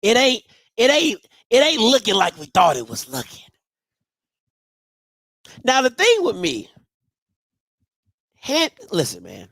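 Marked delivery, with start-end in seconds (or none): 0.0-3.4 mock Bama voice. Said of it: "them bougie Bama said".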